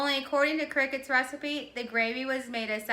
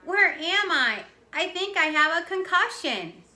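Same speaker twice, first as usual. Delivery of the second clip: mock dazed; 7 semitones higher, 6 dB louder than usual. A narrator's reading. Boy faking a dazed head injury.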